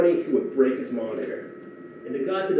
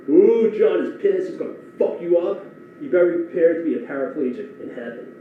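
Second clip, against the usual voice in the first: mocking taunt; 4 semitones higher, 6 dB louder than usual. Coworkers egging him on before meeting the boss, mocking taunt. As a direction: gleefully rub it in. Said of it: "everyone ... was egging me on".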